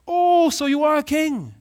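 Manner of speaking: high, loud mocking sneer; sarcastic jab. Pilate mocks Jesus's kingship, loud sarcastic jab. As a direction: scoff at the claim.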